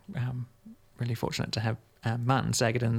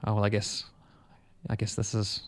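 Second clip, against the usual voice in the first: whisper. Retold or imitated. Quoted resigned inner thought.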